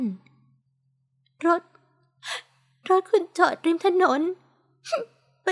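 a hint of a woman choking up mid-sentence, slow and broken; understated tearful stammer, words catching; talking through sobs. A narrator's reading. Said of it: "เธอพูดไปสะอื้นไป".

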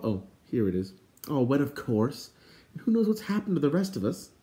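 miffed grumbling; put-out complaint; indignant. Acted. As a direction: grumble indignantly, climbing back up in pitch. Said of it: "suddenly vocal and indignant".

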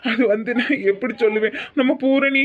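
acted tearful hesitation, struggling to break bad news; choked-up, reluctant bad news. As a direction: falter as if close to crying. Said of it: "எதுக்கு அழுகுறீங்க".

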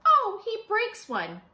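a startled oh at the broken plant; storybook dismay. Acted. Child steps on plant.

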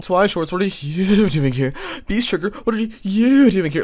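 high, exaggerated put-on cartoon voice; Kermit on drugs. Reactor parodying two YouTubers' greetings, mock cartoon voice. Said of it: "like Kermit the Frog on drugs".

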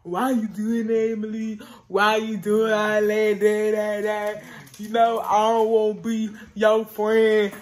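a touch of mock outrage, slow and pressing; imitating him going off. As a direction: play the upset boyfriend, lightly hammed. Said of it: "He gonna go off".

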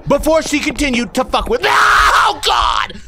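panicked yelling. Real, not acted. Streamer keeps falling while chased, panicked shouting. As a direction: yell in terror from the ground.

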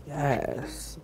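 speaking while wiping face; towel pressed on mouth; muffled through towel. Real, not acted. Seen 0: mask wiped off with towel, covering mouth on and off.

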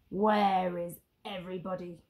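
a lightly voiced growl; a gruff pirate demand; growling captain. Pirate captain asking the empty square, mild growl. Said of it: "growled the pirate captain".

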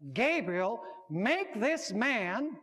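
slow, measured call, lightly projected. Acted. A voice over the river commands Gabriel, calling out. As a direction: call out a command, word by drawn-out word. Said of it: "who called and said".

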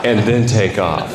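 a hint of a low, easy old man; lightly voiced grandfather sharing a trick, fast then slowing; grandfather's advice. Grandfather tells his grandson an old trick, low and easy. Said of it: "uh, he said".

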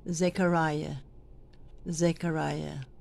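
"Zechariah" said carefully as a model; careful pronunciation. Shown as a demonstration. Lector trainer shows readers how to say "Zechariah", careful pronunciation. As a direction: say "Zechariah" as a standalone example to copy.

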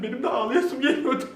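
breaking into laughter mid-line; can't keep a straight face; laughing. Real, not acted. Laughing while voicing crying. (gülmeye başlayarak)

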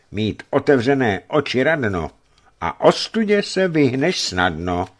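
lightly merry rhyming reply; a touch of good-humoured cheer; cheerful. Acted. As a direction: toss off the saying cheerfully. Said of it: "odpověděl vesele".

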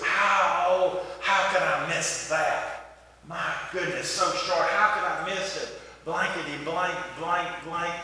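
mildly exasperated golfer grumbling; mock cussing. Golfer cussing over missed short putts, mock tirade. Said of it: "he was cussing".

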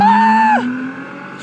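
sudden high shriek of fright; startled scream. Real, not acted. Player jumps at a scare, high shriek. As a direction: jolt and shriek.

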